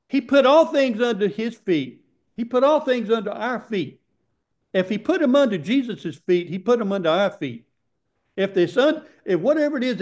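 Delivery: real rising excitement in preaching; getting excited. Real, not acted. Preacher driving a point home to the congregation, excited. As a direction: preach it with eager, emphatic insistence. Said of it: "Okay, I'm getting excited".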